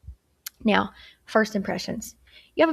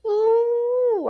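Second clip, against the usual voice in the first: mock surprise; 5 dB louder than usual. Teacher teasing students about slouching.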